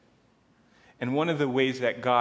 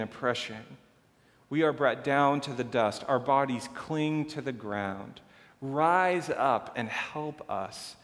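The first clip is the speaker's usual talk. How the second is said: dramatic Bible reading; scripture reading. Acted. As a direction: read the lament like a plea to God. Pastor reads a psalm aloud.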